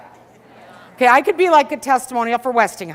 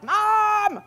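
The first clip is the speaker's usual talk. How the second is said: put-on much higher, urgent little girls' voice; kids pleading; 13 semitones higher, 7 dB louder than usual. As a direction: play the young daughters calling mom in a panic. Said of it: "the girls are like".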